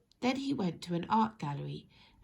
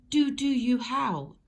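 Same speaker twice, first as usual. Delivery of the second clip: slow, louder mock-formal greeting; polite greeting; 5 semitones higher, 9 dB louder, slower than usual. Townsfolk greeting each other topsy-turvy, mock-formal. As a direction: offer it as a stiff polite hello. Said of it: "instead of".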